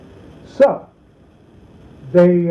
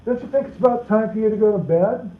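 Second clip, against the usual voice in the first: sarcastic hint; 4 semitones higher than usual. Retold or imitated. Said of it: "my parents might use sarcasm or innuendo".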